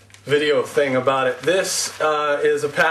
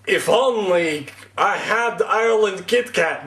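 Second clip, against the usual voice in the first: mock Azerbaijani accent, pitched up, wistful; 5 semitones higher than usual. Vlogger imitating a sad Azerbaijani Kit Kat fan, mock Azerbaijani accent. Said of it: "That's my Azerbaijani accent".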